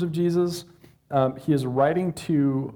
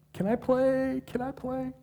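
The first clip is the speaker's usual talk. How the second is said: put-on eager kid Peter; 10 semitones higher, 3 dB quieter than usual. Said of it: "Peter asking to join in".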